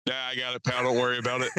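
gruff manly man. Retold or imitated. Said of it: "in a extremely manly voice".

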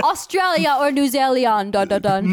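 put-on Aussie accent, mangled place names; hammed-up Australian accent; mock Australian accent. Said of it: "you are mispronouncing the word".

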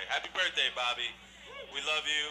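loud cheerful birthday wish; excited birthday toast. Real, not acted. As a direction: raise the voice for a toast.

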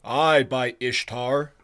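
slow, loud bull-like bellow. Acted. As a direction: bellow it out slowly. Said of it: "bellowed a bull-like voice".

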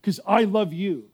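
slow, tender prophetic voice of God; a pastor voicing God's tender word to the church; voice of God speaking. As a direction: speak as the Lord to his children, gently.

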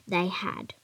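soft hushed whisper. A narrator's reading. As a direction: breathe it out in a whisper. Whispered story narration.

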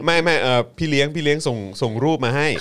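high, loud, breaking into laughter; can't cool down, voice lifted and laughing; real giggly, overcome. Real, not acted. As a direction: try to explain through real laughter, touched and delighted. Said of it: "คูลดาวน์ก่อน".

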